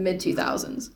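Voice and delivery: soft unvoiced whisper. Real, not acted. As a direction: whisper it aside. Whispered asides.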